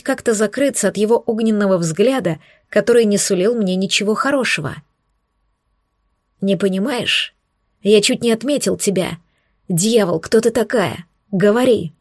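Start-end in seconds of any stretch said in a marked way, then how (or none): 6.4-11.9 angry bark. Acted. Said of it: "Рявкнул он злобно".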